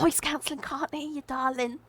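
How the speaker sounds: high, singsong brush-off; breezy mock excuse. Pretending to fob off his wife, high singsong excuse. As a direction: call it out sweetly to a spouse, play-acted.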